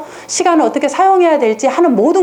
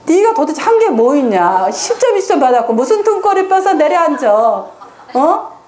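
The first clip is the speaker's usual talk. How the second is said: raised, higher mock scolding of a child; scolding parent; 5 semitones higher than usual. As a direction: play the exasperated parent, voice pushed up.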